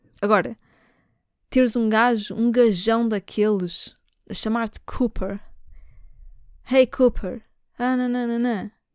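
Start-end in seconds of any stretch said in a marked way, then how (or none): 6.7-7.4 put-on swaggering British accent. Imitating a guy calling a woman by her nickname: british accent. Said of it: "Com aquele sotaque britânico".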